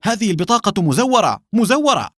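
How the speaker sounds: very high-pitched frantic protest; panicked cry. A narrator's reading. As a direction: cry it out in panic, climbing on the repeat. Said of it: "صاح جوزيف بذعر".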